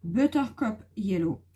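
slow English colour name in a French accent. Real, not acted. To viewers, naming a marker colour in French-accented English. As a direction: read "Buttercup Yellow" carefully with a French accent. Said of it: "Mon accent, hein".

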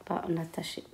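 murmuré lentement, mot après mot, en écrivant au tableau; à voix basse en écrivant. Real, not acted. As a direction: dicte tout bas pour soi, avec de longues pauses. Dictates softly while writing on board. (la maîtresse écrit au tableau et se dicte les mots, à voix basse)

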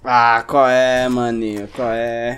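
loud, slow, drawn-out complaint; loud protest. Real, not acted. Player just killed, loud slow protest. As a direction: howl the unfairness of it.

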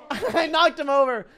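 gleeful, loud and high through laughter; laughing. Real, not acted. Player knocks his opponent over, laughing gleefully. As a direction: crow with a laugh.

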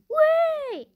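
real panic; panicked wait. Real, not acted. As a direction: cry out as the thing jumps. Gamer panics at screen.

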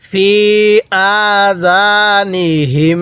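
"ফি আযানিহিম" slow, long vowels and held final m; elongated recitation. Shown as a demonstration. Teacher showing which mim joins, slow recitation. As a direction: hum on the end of আযানিহিম. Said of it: "হা লাগবে এই তাজদিদওয়ালা মিমের সাথে".

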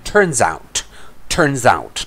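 "turns out" run together as one word; linked pronunciation. Shown as a demonstration. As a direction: link the S of "turns" into "out". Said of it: "ัวเนี้ยมันจะรวบเป็น".

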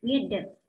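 "get up" joined without a break; linked pronunciation. Shown as a demonstration. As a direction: slide the end of "get" onto "up". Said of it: "người ta nối thành chữ the".

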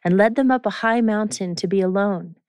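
measured Bible reading voice; scripture reading. Acted. Reads a scripture passage.

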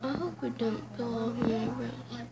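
talking through stiff face mask; barely moving mouth. Real, not acted. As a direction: lips barely parting, mouth held still. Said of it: "I can't really talk".

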